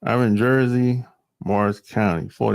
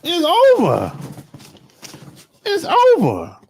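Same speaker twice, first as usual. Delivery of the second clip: high, loud mock wail of defeat; mock despair; 13 semitones higher, 3 dB louder than usual. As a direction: wail it like all hope is lost, hammed up. Sudden mock lament.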